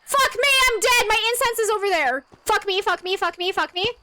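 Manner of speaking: panicked high swearing; swearing tirade. Real, not acted. Panicking during ghost hunt.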